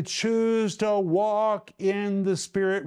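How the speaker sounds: slow, emphatic exhortation. Retold or imitated. Preacher quoting Paul to the congregation, slow and emphatic. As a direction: stretch it out with categorical insistence. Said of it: "I say it emphatically".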